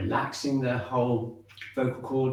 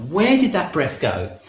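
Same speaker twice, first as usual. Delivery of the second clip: inner question, slow; 4 semitones higher, 7 dB louder than usual. Shown as a demonstration. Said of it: "ask yourself".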